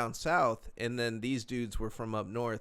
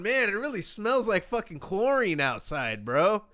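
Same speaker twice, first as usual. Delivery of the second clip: oblivious high voice; 8 semitones higher, 5 dB louder than usual. Retold or imitated. Coked-up self, oblivious.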